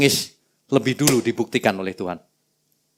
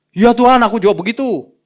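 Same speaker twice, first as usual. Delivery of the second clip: parroting disciple; 8 semitones higher, 5 dB louder than usual. Retold or imitated.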